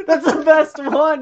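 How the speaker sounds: high-pitched, talking through laughter; amused squeal through giggles; laughing. Real, not acted. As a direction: crack up while saying it. Laughing at Torbjorn cliff kill.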